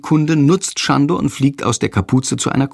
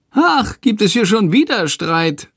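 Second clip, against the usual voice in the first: high, nagging bird voice; high-pitched grumbling talking bird; grumbling Shandor; 10 semitones higher than usual. A narrator's reading. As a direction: grumble it like a small cheeky creature. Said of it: "meckert Shandor".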